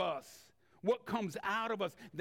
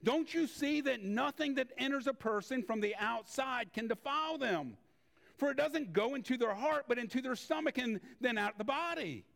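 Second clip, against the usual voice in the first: higher, earnest explaining voice; Jesus speaking; 6 semitones higher than usual. Acted. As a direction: lift the voice for Jesus' words. Jesus voiced reading scripture.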